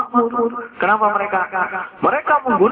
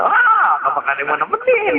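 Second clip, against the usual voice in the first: mock sweet voice; 12 semitones higher than usual. Mock sweet stranger asking.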